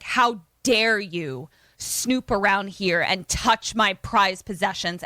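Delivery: retold aggro outburst. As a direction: act out an aggressive telling-off. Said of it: "he gets real aggro".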